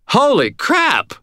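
startled cashier yelling; shouted in shock. A narrator's reading. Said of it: "shouted the cashier".

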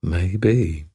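drawn-out low confession. Acted. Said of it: "lowering her voice and drawing the word out a little".

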